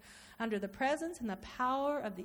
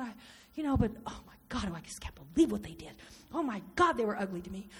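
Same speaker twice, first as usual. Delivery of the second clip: torn inner prayer; 4 semitones lower, 3 dB quieter, faster than usual. Acted. Anguished inner prayer and brooding.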